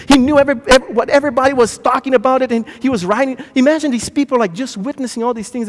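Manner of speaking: loud, high, excited preacher voice; fervent preaching. Real, not acted. Preacher tells congregation of Peter learning, fervent.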